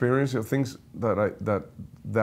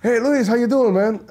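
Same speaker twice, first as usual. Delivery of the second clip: imitating Johnny; 10 semitones higher, 5 dB louder than usual. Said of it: "So, so Johnny goes".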